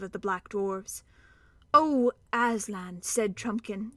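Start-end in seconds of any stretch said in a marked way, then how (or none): 1.7-3.0 cheery contempt. Acted. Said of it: "cheerily but contemptuously".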